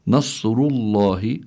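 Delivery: slow "نصر الله" with heavy, full ra and lam; careful recitation of "نصر الله" with emphatic ر and ل; tafkhim demonstration. Shown as a demonstration. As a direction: draw out "نصر الله", thickening the ر and ل. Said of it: "حكمها التفخيم".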